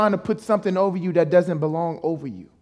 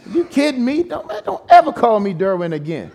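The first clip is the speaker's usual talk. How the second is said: laughing protest; 3 semitones higher than usual. Real, not acted. Laughing at being called Derwin.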